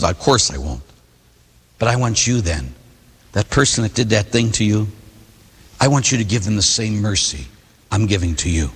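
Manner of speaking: the Father answering the sinner, low and gentle; gentle fatherly reply. Acted. God answers the penitent.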